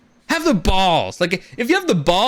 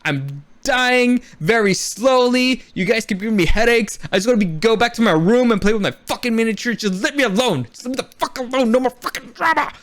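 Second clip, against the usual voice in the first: fed-up king; 4 semitones higher than usual. Retold or imitated. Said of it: "Viserys basically like".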